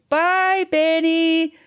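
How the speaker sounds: high, loud singsong farewell call; shouted goodbye. A narrator's reading. Red Riding Hood waves off the wolf, shouted goodbye. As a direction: call out a bye from a way off. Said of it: "gaed a wee wave and shouted".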